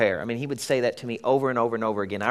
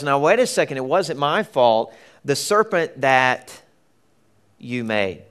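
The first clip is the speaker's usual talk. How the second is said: mild indignant excuse. Retold or imitated. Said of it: "the woman says".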